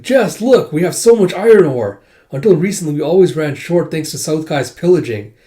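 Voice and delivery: high, loud eager report; imitated delighted villager; excited villager. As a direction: show it off proudly to the lord. Villagers report happily to their lord.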